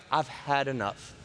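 a touch of a low, fed-up God; mock weary divine scolding; low exasperated God. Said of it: "God's like".

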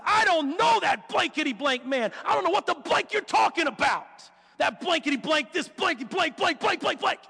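hammed-up cursing tirade with stand-in swear words; mock cussing. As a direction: spit out a pretend string of curses. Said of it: "start cussing".

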